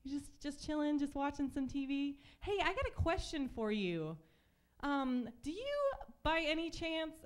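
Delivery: mock casual probe. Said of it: "I was like".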